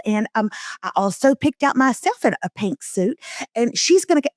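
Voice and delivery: a light, eager Corky voice, barely put on; imitating Corky. Podcast host imitating Corky bragging about his wife, mildly put on. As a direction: gush about the wife's visit like Corky. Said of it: "Corky would talk about his wife like this".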